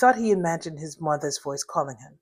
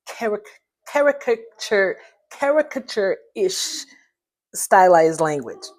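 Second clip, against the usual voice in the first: slow, higher put-on voice; mock stylized voice; 3 semitones higher, 4 dB louder, slower than usual. Shown as a demonstration. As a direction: exaggerate the stylized words, slowly. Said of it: "does not roll naturally off my tongue".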